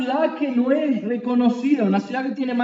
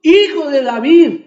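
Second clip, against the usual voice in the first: loud pleading cry, pitched up; blind man crying out; 2 semitones higher, 4 dB louder than usual. Retold or imitated. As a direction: beg at full voice for mercy. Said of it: "Él comenzó a gritar". (el ciego clamando a Jesús, súplica fuerte)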